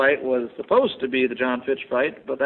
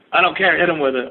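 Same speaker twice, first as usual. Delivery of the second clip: loud, higher coach's order; mock impatient coach shouting from the corner; imitated coach yelling; 4 semitones higher, 5 dB louder than usual. Coach dismissing fighter's groin injury, loud mock order. Repeats favourite coach quote.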